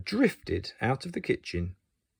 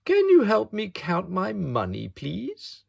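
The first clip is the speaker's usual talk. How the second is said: polite asking; 8 semitones higher than usual. Acted. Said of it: "he asked politely".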